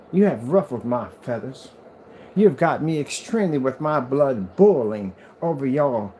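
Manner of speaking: drawn-out, hammed-up Southern drawl; indignant mock-Southern letter writer; southern accent. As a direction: put on a theatrical Southern accent, stretching the words. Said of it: "I keep picking up a southern accent".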